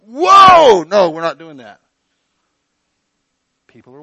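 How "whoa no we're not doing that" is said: a startled mock "whoa"; mock self-stopping. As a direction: pull yourself up short, half-joking. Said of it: "Do I go".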